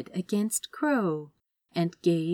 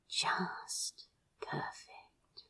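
very slow hushed murmur; slow breathed whisper; 12 dB quieter, much slower than usual. A narrator's reading. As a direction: breathe it out slowly in awe. Breathed thought while kissing.

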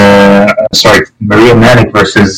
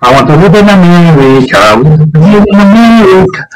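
put-on higher, jokey Middle Eastern accent; 5 semitones higher than usual. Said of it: "This is the best time I ever pulled off a Middle Eastern accent".

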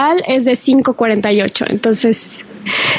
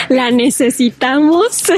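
laughing. Real, not acted. Laughing wish for a track.

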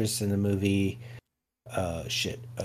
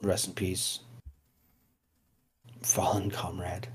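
hushed solemn whisper; 2 semitones lower, 8 dB quieter than usual. Acted. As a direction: whisper it like at a funeral. Mock mourning dead friend.

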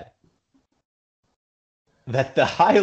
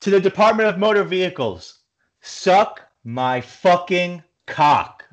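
big mad; 4 semitones higher than usual. Real, not acted. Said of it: "Oh, you big mad".

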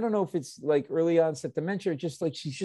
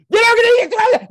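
shrieking, much higher and louder; angry yell; 11 dB louder, much faster than usual. Retold or imitated. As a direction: yell it like a furious Italian mother. Mother grabbing stuff, family screaming.

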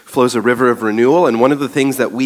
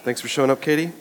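possibly sarcastic, offhand thanks; 4 semitones higher, 4 dB quieter, faster than usual. Real, not acted. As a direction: thank someone with a dry hint of sarcasm. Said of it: "Did I sound sarcastic?".

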